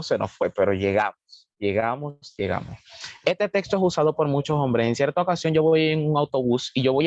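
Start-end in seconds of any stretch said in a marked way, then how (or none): none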